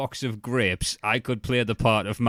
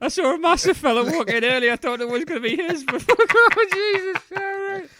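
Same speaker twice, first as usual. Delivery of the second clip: laughing; 8 dB louder than usual. Real, not acted. Cracking up at joke.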